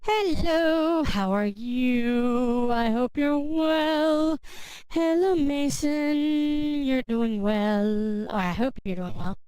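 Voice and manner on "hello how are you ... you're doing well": slow, high drawn-out hello; sing-song greeting. Acted. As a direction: stretch the greeting out sweetly.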